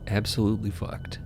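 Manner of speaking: normal talking voice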